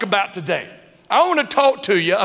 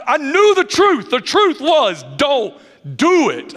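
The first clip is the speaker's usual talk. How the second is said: emphatic; 6 semitones higher, slower than usual. Real, not acted. Emphatic sermon point.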